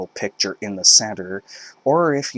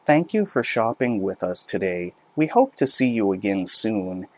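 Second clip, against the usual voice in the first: retail voice. Retold or imitated. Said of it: "in my retail voice said".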